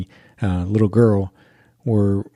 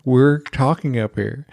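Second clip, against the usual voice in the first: reproving dad; 3 semitones higher, slower than usual. Retold or imitated. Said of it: "her dad's like".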